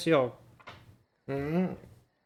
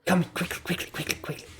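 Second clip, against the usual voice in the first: urgent hush; 8 semitones higher, faster than usual. Acted. NPC hurrying party inside quietly.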